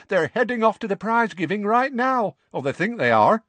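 boastful, pleased with her trick; young witch. Acted. Witch bragging to Harry about the Dursleys, cheeky. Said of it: "said the violet-haired woman".

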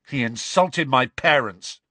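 indignant pupil's retort; mild angry protest; snarled retort. Acted. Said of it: "snarled George".

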